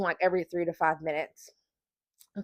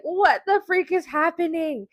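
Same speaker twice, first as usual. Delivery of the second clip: mock panicked cry, high-pitched; retold bewildered panic; 9 semitones higher than usual. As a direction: act out baffled alarm without full volume. Acting out own panic in labor.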